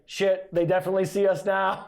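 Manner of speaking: laughing, lightly voiced alien; a hint of a sci-fi alien, half laughing. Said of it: "It's my alien voice".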